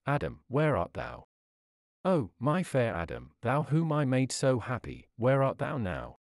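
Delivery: put-on a gentle, grieving call to a lost child; soft sorrowful plea. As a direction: call him softly, full of sorrow. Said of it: "with a soft, sorrowful, and plaintive voice".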